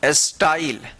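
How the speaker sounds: teacher repeats स्टाइल as style. Shown as a demonstration. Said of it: "क्या पढ़ेंगे?".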